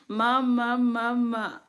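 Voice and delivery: put-on high, loud baby wail; imitated baby cry. Mother demonstrating the sound she can't resist, high mock wail. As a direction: call out like a crying baby. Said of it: "making that sound".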